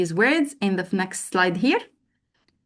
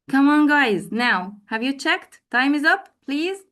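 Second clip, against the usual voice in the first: raised, higher voice, like a teacher calling time; playfully urging pupils to finish; teacher hurrying the class; 5 semitones higher than usual. Acted. Teacher acting out a class, hurrying students to check answers. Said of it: "So I will ask them to".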